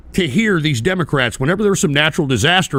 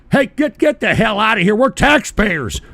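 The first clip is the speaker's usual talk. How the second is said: angry dismissal; 4 semitones higher than usual. Real, not acted. Dismissing the argument angrily.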